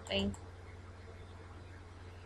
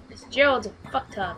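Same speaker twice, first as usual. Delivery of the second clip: angry shout; 2 semitones higher than usual. Real, not acted. Raging at character.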